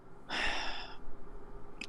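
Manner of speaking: soft long exhale; resigned sigh. Acted. Barkeep sighs before offering rooms, resigned. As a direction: sigh quietly before giving in.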